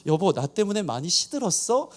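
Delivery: soft, careful question rising on 시들었어; soft and careful, 시들었어 lifted gently at the end. Retold or imitated. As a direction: ask tenderly, tiptoeing around his wife. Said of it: "되게 부드럽게 얘기한 거예요".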